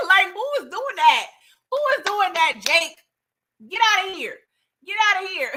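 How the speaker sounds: high, laughing get outta here; laughing disbelief. Real, not acted. Vlogger mocking Jake to viewers, high laughing disbelief. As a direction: scoff through laughter.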